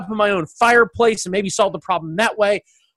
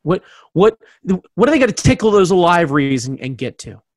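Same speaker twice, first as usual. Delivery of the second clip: dramatic announcer; 7 semitones lower than usual. Pretend. Hammed-up low announcer.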